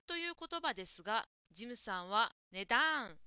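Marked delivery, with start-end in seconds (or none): 2.5-3.2 imitating English-accented 値段 with a strong だ; learner's English-accent 値段; English-like pronunciation. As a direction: mimic the learner's English-style 値段, stressed だ. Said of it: "英語みたいな発音".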